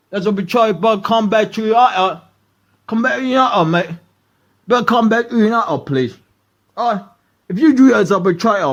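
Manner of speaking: lightly voiced pleading scout with a hint of Brit; half-hearted imitation of a scout begging him back; mock British scout. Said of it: "the scouts just call up".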